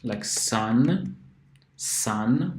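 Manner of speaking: "sun" with a clear S; demo word sun. Shown as a demonstration. Teacher demos the S sound in sun. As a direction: model "sun" twice. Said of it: "pronounces like S".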